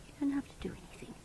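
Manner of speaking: quick soft whisper; hushed quick reassurance. Real, not acted. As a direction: breathe it out fast and gentle. Soothing the pet, repeats.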